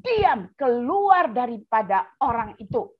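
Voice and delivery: slow, even "Diam, keluar" with no shout; calm command. Acted. Jesus calmly commands the spirit, slow and steady. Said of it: "Yesus bilang".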